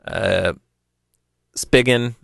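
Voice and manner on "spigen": Spigen said as SPIG-en; pronunciation variant. Shown as a demonstration. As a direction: say Spigen with a short i and a hard g. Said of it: "however you pronounce the name".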